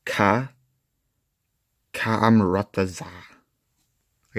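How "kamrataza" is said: Kamrataza, slow, syllable by syllable; sounding it out. Shown as a demonstration. Reviewer stumbling over an unpronounceable alien word. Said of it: "I know you don't have to pronounce it".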